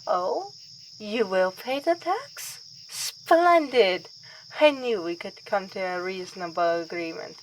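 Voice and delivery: playfully voicing a gracious vampire mother; mock mother. Mocking her mother welcoming the Baroness, lightly high and pleased. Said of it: "I'm sure my mother would like".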